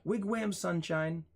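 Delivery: high-pitched, incredulous reading of an odd phrase; baffled mock recital. Shown as a demonstration. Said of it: "who talks like that".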